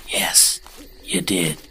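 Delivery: hushed, menacing whisper. Acted. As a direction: breathe it out like a threat. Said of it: "in a whispered voice".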